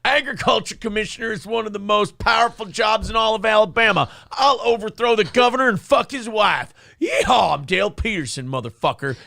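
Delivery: mock campaign shout. Shouted parody of candidate.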